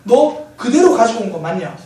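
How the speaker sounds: imitated father's stern, loud demand; angry questioning. Father questioning his son about the medicine, acted anger. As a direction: confront the son, loud but controlled. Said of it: "갑자기 화를 내면서 아들에게 묻습니다".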